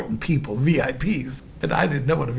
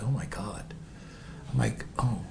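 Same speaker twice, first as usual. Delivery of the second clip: low, very soft reaction; stunned murmur; 6 semitones lower, 13 dB quieter than usual. Retold or imitated. Singer taken aback by dying woman's yell, stunned murmur. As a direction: shrink back, barely voicing it.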